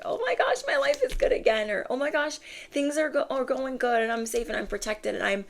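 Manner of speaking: put-on high, giddy childlike glee; acted rush of happy relief, starting very high; delighted inner child. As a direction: play an overjoyed kid, pitched well up. Acting inner child running around delighted.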